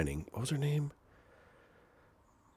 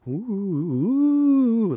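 high, drawn-out ghost ooh; ghostly wail; 13 semitones higher, 5 dB louder than usual. Pretend. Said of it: "I'll make a ghost noise".

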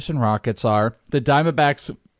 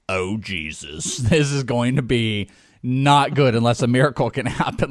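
retold dismay; 4 semitones lower than usual. Watching the last seconds, mock dismayed groan. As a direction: groan like the game's already lost. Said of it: "I went".

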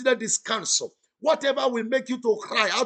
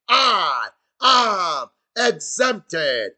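I am exempted drawn out very slowly and louder; stretched-out shout; 5 dB louder, much slower than usual. Shown as a demonstration. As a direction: stretch every word of I am exempted into a long, loud proclamation. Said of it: "Somebody shout".

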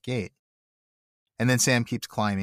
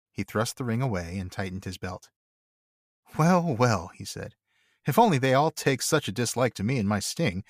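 measured storybook reading voice; story narration; 2 semitones higher than usual. Acted. Cohost reading the Tolkien chapter aloud to listeners. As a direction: read the tale aloud for listeners. Reads The Lord of the Rings aloud.

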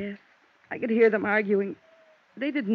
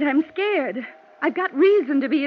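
scared; 3 semitones higher, 3 dB louder than usual. Acted. Kathy breaks down admitting fear.

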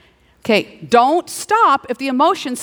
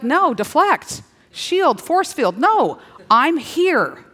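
firm deflecting; 4 semitones higher, much slower than usual. Acted. Voicing believer rebuffing attacks.

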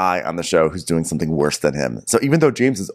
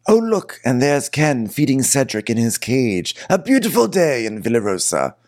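lightly voiced Lisa; 5 semitones higher than usual. Voicing Lisa in the garden.

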